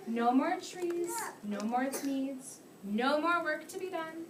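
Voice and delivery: put-on slow, sing-song read-aloud to children; lively picture-book reading for little kids; story reading. Teacher reads the story aloud.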